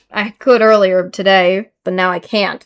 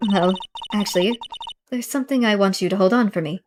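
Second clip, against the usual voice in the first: quiet phone voice; 7 dB quieter than usual. Acted. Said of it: "Listen once more to the conversation".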